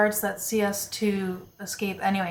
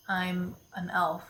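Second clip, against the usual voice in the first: whisper; 8 dB quieter, slower than usual. Real, not acted. Player whispers aside.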